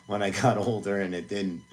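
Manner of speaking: rueful laugh into the words. Real, not acted. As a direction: chuckle at your own bad luck while talking. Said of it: "I'm laughing".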